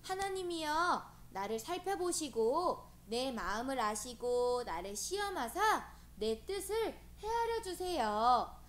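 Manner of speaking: measured, emphatic prayer with lifted phrase openings; David's prayer. Retold or imitated. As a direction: recite it as a fervent plea to God. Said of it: "다윗은 날마다 이렇게 기도했던".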